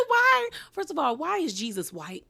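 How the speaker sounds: sharp high disbelieving why; incredulous why. Retold or imitated. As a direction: react like you can't believe it. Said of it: "I said".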